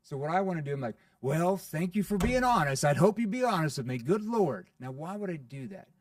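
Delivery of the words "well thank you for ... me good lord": playful. Shown as a demonstration. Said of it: "Playful, right?".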